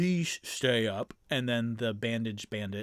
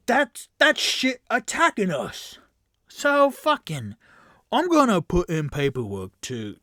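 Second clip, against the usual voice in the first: higher, louder exasperated rant, slowed; bandit ranting; 4 semitones higher, 6 dB louder than usual. Acted. Bandit rants to the recruits about being stuck guarding here. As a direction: vent the grievance hard.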